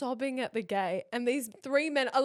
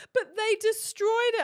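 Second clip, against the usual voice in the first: put-on upset child; 10 semitones higher, 5 dB louder than usual. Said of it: "And she's like".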